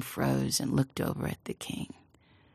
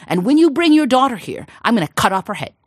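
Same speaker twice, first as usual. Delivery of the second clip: stern king; 7 semitones higher, 7 dB louder than usual. Acted. King threatens farmer.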